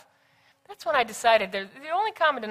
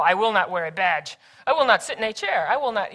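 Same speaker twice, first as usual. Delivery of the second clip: slightly raised, emphatic mock protest; mock defiant refusal; 4 dB louder than usual. Employee protesting down the hall, mock defiant. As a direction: imitate someone stubbornly digging in.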